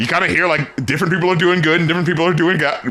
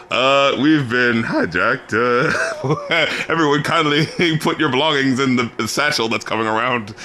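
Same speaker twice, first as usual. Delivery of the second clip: mock PA announcement; 7 semitones lower than usual. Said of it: "come over the P A system".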